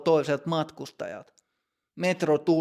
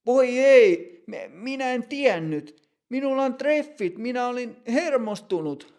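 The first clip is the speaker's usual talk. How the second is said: flustered panic; 8 semitones higher, 3 dB louder than usual. Acted. Matti panics over the fine.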